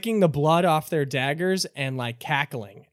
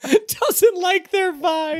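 mocking repeat; 13 semitones higher, 3 dB louder, much slower than usual.

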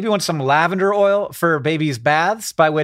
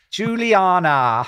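put-on slow, drawn-out British accent on Juliana; a mock British accent on the name; much slower than usual. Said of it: "pronounce this with a British accent".

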